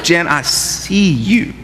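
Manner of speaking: put-on slow, smooth Girl, I see you; husband woos his wife, slow and smooth; smooth romantic line. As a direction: lay it on thick for your wife. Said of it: "just tell her".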